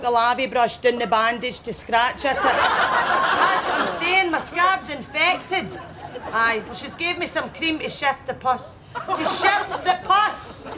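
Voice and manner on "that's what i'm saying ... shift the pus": mock voice. Mocking the doctor's words.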